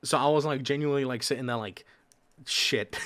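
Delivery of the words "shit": whispered. Retold or imitated. Panicking about doing a voice.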